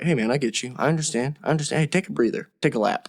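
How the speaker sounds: softly spoken, understanding reassurance; mild, quiet soothing; calm adult talk-down. Acted. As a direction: gently talk a friend down. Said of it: "if I were adult me".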